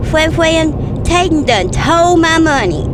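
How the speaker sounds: Fwan Fwan with a w for r, told for stole; imitating a small grandson's lisp; child's lisping speech. Grandma mimics grandson's speech impediment, lisping lightly. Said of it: "he's got a little speech impediment".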